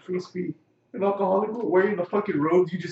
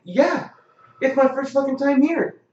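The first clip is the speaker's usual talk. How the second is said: higher, louder mocking yes; sarcastic loud reply; 9 semitones higher, 6 dB louder than usual. Answering the guard's first-time jab, high and sarcastic. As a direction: throw the sarcasm right back at him.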